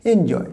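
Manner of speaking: এনজয় as "EN-joy"; correct pronunciation. Shown as a demonstration. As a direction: begin এনজয় with a clear "en". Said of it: "তাহলে উচ্চারণটা কী হবে?".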